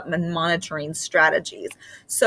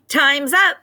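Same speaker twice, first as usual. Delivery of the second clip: loud, higher, curt command; barked order; 7 semitones higher, 5 dB louder than usual. Acted. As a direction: snap it like a strict substitute cutting her off. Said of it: "she barked".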